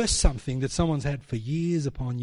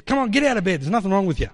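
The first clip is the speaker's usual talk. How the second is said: louder, brisk get-up order; firm rousing call; 3 semitones higher, 4 dB louder, faster than usual. Retold or imitated. Wife ordering sick friend out of bed, loud and firm. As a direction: pull her out of bed with your voice.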